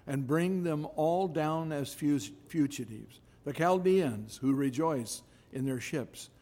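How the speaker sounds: measured, emphatic Bible reading; scripture reading. Acted. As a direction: proclaim the verses firmly, phrase by phrase. Reads scripture aloud to congregation.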